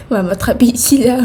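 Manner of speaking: playful conspiratorial whisper. Acted. Joking to viewers she'll get caught, whispered. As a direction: breathe it like a secret.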